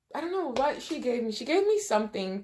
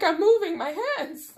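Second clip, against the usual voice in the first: insisting; 8 semitones higher than usual. Retold or imitated. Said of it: "I'm like".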